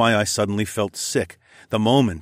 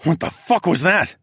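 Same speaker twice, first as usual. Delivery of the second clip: alarmed; 8 semitones higher, 4 dB louder than usual. A narrator's reading. Alarmed by screech.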